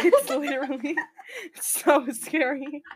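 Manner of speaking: words broken by laughter; laughing. Real, not acted. Friend laughs while admitting microwaves scare her, laughing. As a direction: laugh through it, barely getting it out.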